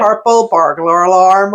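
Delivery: mock Scottish accent. Shown as a demonstration. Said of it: "got her to say it".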